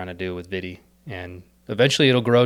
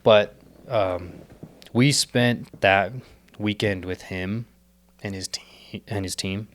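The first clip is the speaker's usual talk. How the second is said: hoarse, strained voice; rough from losing my voice; 3 dB louder, slower than usual. Real, not acted. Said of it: "losing my voice".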